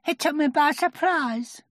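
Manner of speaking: very high, timid little voice; nervous. A narrator's reading. Piglet explaining his tumble, nervous and high. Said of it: "said Piglet nervously".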